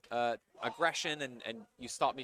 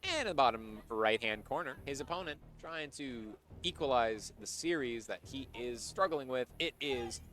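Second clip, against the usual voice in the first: drawn-out ring announcer intro; player introduction announcer. Pretend. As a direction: build up to a long, stretched-out name.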